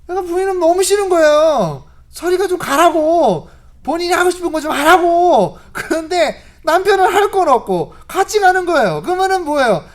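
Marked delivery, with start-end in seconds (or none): 2.1-5.6 wife yelling at the husband to leave her alone; annoyed wife. Retold or imitated. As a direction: push him away, fed up. Wife shoos husband away.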